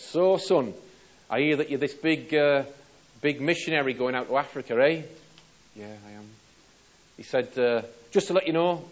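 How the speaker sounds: loud, high mocking ship captain; captain teasing a missionary who's sailing to Africa; taunting sea captain. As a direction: wind the young man up with a grin in the voice.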